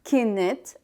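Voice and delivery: كنت with a short vowel before the final t; two-syllable variant. Shown as a demonstration. Teacher showing learners one of two pronunciations, two-syllable variant. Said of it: "sometimes we will say it".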